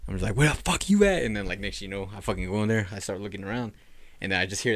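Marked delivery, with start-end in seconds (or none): 0.3-1.2 retold call-out. Re-enacts calling out to intruder.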